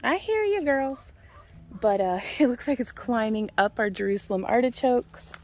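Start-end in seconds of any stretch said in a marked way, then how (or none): 0.0-1.1 much higher sing-song answer; high reply to hens. Real, not acted. To the clucking hens, a high sing-song reply. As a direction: pitch it way up for the chickens.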